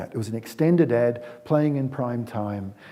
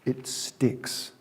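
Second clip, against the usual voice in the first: breathy whisper, voice nearly gone; whispered repeat; 6 dB quieter than usual. Real, not acted. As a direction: drop to a whisper to land it. Repeats the key line.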